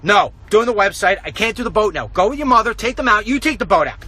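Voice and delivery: curt dad reply; brusque refusal. Retold or imitated. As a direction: brush the kid off, irritated. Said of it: "I'm like".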